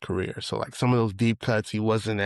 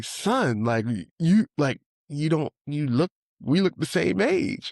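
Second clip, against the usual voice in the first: higher, stammering astonishment; mock disbelief; 6 semitones higher than usual. Friend shocked the speaker is forty-nine, higher. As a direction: stumble over it in shock, higher. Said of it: "He was like".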